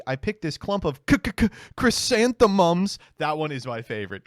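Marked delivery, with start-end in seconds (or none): 0.1-3.0 put-on stuttering child. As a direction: stammer like a little kid.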